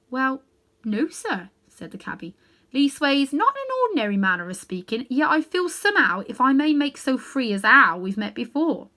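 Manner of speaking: a London cabby fumbling for words; cockney cabby. Acted. Cabby answers the great lion, humble cockney voice.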